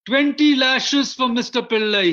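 loud, high stern order; magistrate's sentence. Retold or imitated. Magistrate sentencing Pillai to lashes, loud and high. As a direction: bark out the punishment. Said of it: "he says".

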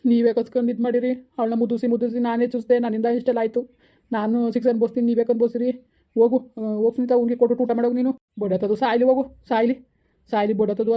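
angry, hurt parental rant; bitter outburst. Acted. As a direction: lash out in bitter grief. Bitter outburst disowning the daughter.

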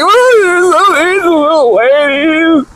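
high, slow, whiny falsetto imitation; hammed-up high mocking voice; mock offended woman. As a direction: parody a hurt viewer in a high whine. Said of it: "they'll say things like".

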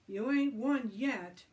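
loud, slow, emphatic retort; yelling. A narrator's reading. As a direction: yell it back, stretching the words. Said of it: "yelled Joe".

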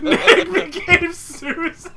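laughing. Real, not acted. Laughing at teammate's new name.

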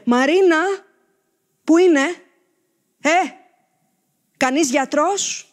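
loud calls for help across the house; calling out loud. Acted. Father in hospital calling for his daughter, loud and urgent. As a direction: yell out for Marina and a doctor.

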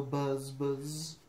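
drawn-out buzzing words; bee buzz. Acted. Reader asks the child to go buzz, imitating a bee. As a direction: stretch each buzz like a bee. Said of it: "He can sound like a bee".

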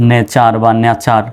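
slow "ne-char" then "nya-char" for নেচার বা নেচার; two everyday variants of নেচার, slowly laid out; common mispronunciation demo. Shown as a demonstration. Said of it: "অনেকে এরকম বলে".

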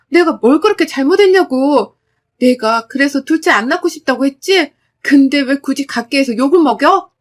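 escalated yell. Acted. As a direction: shout 내가 뭘 그렇게 잘못했냐고 in full anger. Repeated demand, escalated.

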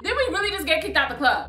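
a quiet laughing echo of the question; laughing repeat. Retold or imitated.

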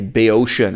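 "Boeotian" said the British way; British-style "Boeotian"; British pronunciation. Shown as a demonstration. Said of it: "this is the British pronunciation of Boeotia".

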